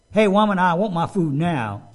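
loud, bossy "I want my food now"; rude demand. Shown as a demonstration. Preacher mocking a husband who demands food from his wife, loud and rude. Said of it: "is not respectful".

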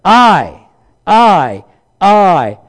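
God fed up with excuses, booming; stern God. Retold or imitated. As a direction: bark the orders, impatient. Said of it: "finally God said".

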